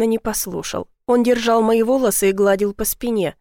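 plain reading voice

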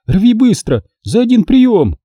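urgent plea. Acted. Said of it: "взмолилась Алёна".

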